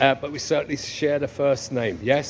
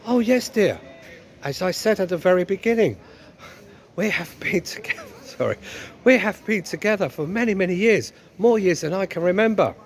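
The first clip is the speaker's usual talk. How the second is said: lightly put-on wifely voice; a touch of comic marital weariness; long-married wife; 4 semitones higher than usual.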